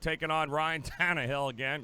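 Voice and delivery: laughing through the name; breaking into a laugh mid-line. Real, not acted. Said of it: "Gotta say it while I'm laughing".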